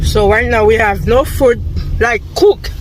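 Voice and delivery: talking while chewing gum; words round a wad of gum. Real, not acted. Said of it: "with the gum in my mouth".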